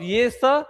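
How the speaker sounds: स as a clean dental "s"; tongue toward the teeth for स; dental sibilant. Shown as a demonstration. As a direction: demonstrate स at the teeth. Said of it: "जीभ को दांत की ओर".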